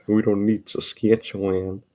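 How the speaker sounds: thick North Central accent, flattened A's; broad North Central vowels, casually tossed off. Shown as a demonstration. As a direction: lean into an Upper Midwest accent. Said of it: "this is my accent".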